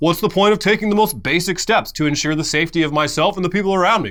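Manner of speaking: sarcastic, mocking put-on voice with a skeptical tone. Voicing someone who thinks masks and vaccines are pointless: mock sarcastic put-on voice. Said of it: "That's sarcasm, by the way. He's doing a ju- the voice of someone who would say that".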